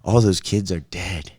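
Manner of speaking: low, quiet creepy storyteller. Shown as a demonstration. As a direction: say it low and eerie. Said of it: "I'm gonna say it in my creepy voice".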